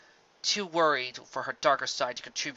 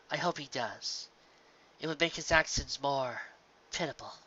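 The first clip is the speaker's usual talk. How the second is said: soft wise princess; 2 semitones higher, 3 dB quieter than usual. Acted. Celestia speaking gently.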